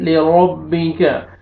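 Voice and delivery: रब्बी slowly, with a thick, full R; heavy ra. Shown as a demonstration. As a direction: round out the R of रब्बी. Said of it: "रॉ को आपने मोटा करके पढ़ना है". (रब्बी का रॉ मोटा करके)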